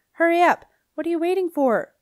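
high, loud call from far above. A narrator's reading. Lucy calling down to Wolf Boy, a high urgent shout. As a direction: shout down to hurry him.

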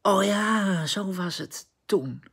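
mock surprise, slowing as it sinks in; surprised recognition. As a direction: act out a pleasant jolt of remembering. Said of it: "verrassing die dit weer heeft".

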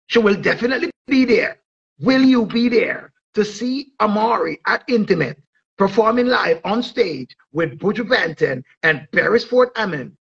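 dancehall promo read, punchy and rolling; hype promo announcer. Acted. Promoter hyping the Intimate show to fans, announcer style. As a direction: sell the show like a radio hype man.

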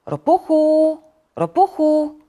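high, loud call to a friend; sing-out call through a door. A narrator's reading. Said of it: "zawołał Żabek".

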